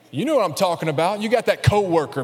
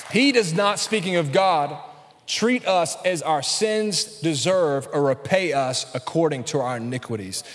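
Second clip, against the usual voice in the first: slow emphatic reread. Shown as a demonstration. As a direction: stress on He, then slow and deliberate. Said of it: "I'm gonna read it again".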